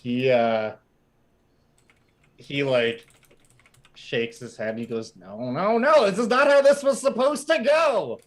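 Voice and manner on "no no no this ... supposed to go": high, fast whining toy complaint; whiny toy. Acted. Toy laments to the party, high whiny rant. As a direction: wail about never being bought.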